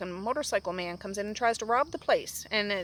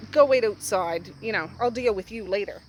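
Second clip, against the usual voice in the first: a firm, louder order to get out; sharp order; 5 dB louder than usual. Retold or imitated. Bear ordering the robber out of the store, firm loud order. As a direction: send him outside, firmly and loudly.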